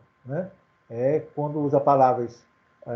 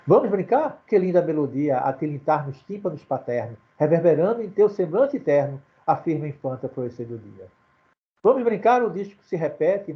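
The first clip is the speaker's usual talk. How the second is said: poem recitation. Acted. Father reading his sonnet for his daughter, poetic recitation. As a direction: recite the sonnet, lifting each opening line.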